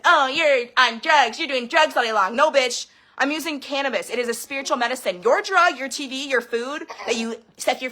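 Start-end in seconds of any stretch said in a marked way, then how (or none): 0.0-2.4 slow, drawn-out sneer at a preachy voice; mocking judgy religious people. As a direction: parody a condescending churchgoer, lightly. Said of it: "It judges and shames and manipulates".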